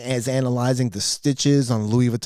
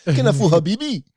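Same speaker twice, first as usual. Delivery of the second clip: put-on Arabic accent; 4 semitones higher than usual. Pawn owner mocking scammers, Arabic accent. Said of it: "He's got that accent".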